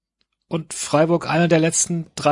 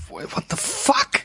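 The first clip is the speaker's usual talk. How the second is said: high, slow, stunned disbelief; incredulous; 4 dB quieter, slower than usual. Real, not acted. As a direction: drag it out in disbelief. Incredulous outburst about rival.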